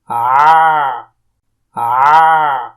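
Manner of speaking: آ with the mouth wide and the throat pressed; throaty open-mouthed aa. Shown as a demonstration. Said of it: "پورا منہ کھول دینا ہے، ایسے".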